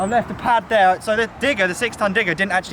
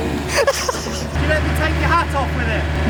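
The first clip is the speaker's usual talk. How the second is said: laughing; 10 semitones higher, much slower than usual. Real, not acted. Laughing at the lost hat.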